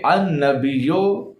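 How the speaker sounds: "النبیو" slowly, ending in -yo; own reading. Shown as a demonstration. Showing viewers how he himself recites, own reading. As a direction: say "النبیو" as an-nabiyyo, drawn out. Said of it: "میں کیسے پڑھتا ہوں".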